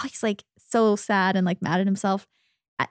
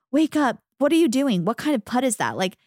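1 mock mean scolding; 4 semitones higher, faster than usual. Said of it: "being so mean to him".

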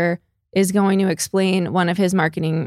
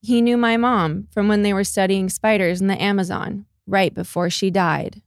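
deadpan line read. Retold or imitated. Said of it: "she goes".

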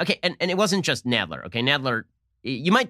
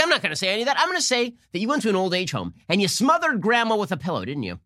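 higher, hammed-up accusing questioner; mock accusing congresswoman; 6 semitones higher than usual. Host mocking congresswoman accusing Barr, hammed-up and higher. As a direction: parody a congresswoman grilling a witness.

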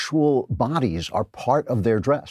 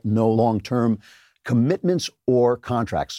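ordinary delivery

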